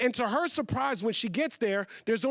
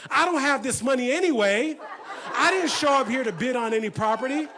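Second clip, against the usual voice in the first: sassy, raised-voice defiance; a little attitude; 3 semitones higher, 4 dB louder than usual. Acted. Mother fed up with the bidding, mock attitude. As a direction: toss it out with attitude. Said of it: "starting to get a little attitude".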